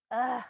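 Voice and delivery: loud, short "ugh" of discomfort; shivery grunt. A narrator's reading. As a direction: grunt with cold, as if stamping your feet. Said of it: "stomping her feet".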